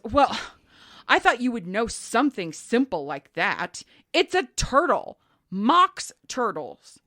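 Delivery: hammed-up huffy customer. Lady scolding a pet store clerk, huffy. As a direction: huff at the clerk as if it's obvious. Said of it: "the lady gets all huffy".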